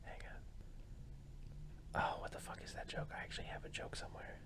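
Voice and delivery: whispered thinking aloud; barely voiced, under the breath; muttering to self. Real, not acted. Comic searching memory for a joke, muttering to self.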